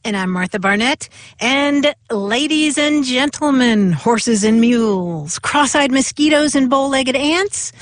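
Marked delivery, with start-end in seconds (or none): 1.4-7.7 like a pompous speaker addressing a crowd; mock orator. Reciting mock speech doggerel.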